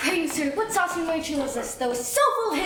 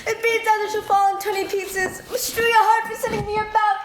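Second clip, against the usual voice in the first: loud complaining; 5 semitones higher, 3 dB louder than usual. Acted. Nurse complains of aching head.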